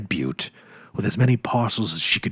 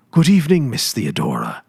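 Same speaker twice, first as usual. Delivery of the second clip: brisk; 4 semitones higher, 4 dB louder than usual. Acted. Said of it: "said Mister Benson briskly".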